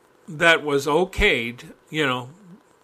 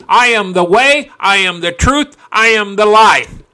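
loud, forceful proclamation, each line punched; with full heart; 3 semitones higher, 8 dB louder than usual. Shown as a demonstration. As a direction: throw your teeth and your heart into it. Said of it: "You put your teeth and your heart into that".

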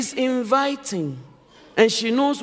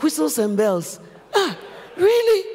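rising, incredulous really; shocked disbelief; 2 semitones higher than usual. Retold or imitated. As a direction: act stunned by what you heard. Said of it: "I was so shocked".

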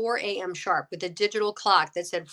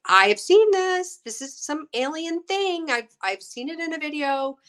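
alarmed realization; 8 semitones higher, 4 dB louder than usual. Retold or imitated. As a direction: say it like it just clicked. Startled realization, quoted.

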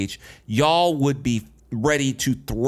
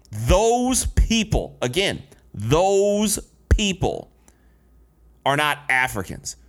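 disgusted; 3 semitones higher, slower than usual. Retold or imitated. Critic quoting the comedian's speech about Black people, pointedly disgusted. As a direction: draw out the phrase as mock disgust. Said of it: "listen to the disgusted".

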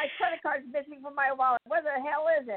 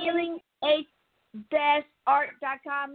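slow dictation, repeated; 3 semitones higher than usual. Shown as a demonstration. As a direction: read out again slowly for writing down. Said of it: "I will repeat it again".

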